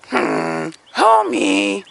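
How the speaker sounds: lightly put-on cool guy drawl; laid-back impression. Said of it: "let me show you guys an impression".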